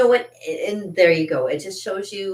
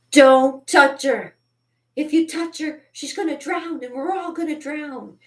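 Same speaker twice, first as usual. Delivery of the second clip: much higher, slow, sing-song mockery of the friend; mocking the friend; 10 semitones higher, 5 dB louder than usual. Mimicking her boyfriend's friend who told the others not to help her, in a high mocking voice. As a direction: ham up the friend's silly warning in a high voice. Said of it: "they're like".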